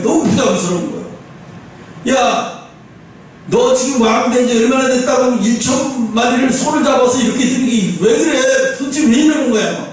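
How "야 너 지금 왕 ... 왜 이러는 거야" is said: mock surprise. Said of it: "하나님도 놀라서".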